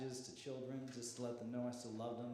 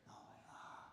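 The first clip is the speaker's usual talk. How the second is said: principal's silent look; 15 dB quieter than usual. Retold or imitated. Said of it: "she gave me this look like".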